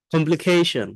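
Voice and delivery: কমপ্লিকেশন with the stress on the ke syllable; stress on keɪ. Shown as a demonstration. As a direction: model কমপ্লিকেশন, leaning on ke. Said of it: "এরকম ভাবে বলবেন".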